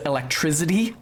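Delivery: electricity said with a Z for the S sound; mom's "electrizity" for electricity; regional Z pronunciation. Shown as a demonstration. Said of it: "an S at the end of a stressed syllable becomes a Z".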